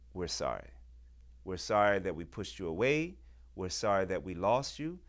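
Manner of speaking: low, sincere apology; heartfelt apology. Real, not acted. To young people who were pushed away, low heartfelt apology. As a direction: say sorry gently, voice dropped low.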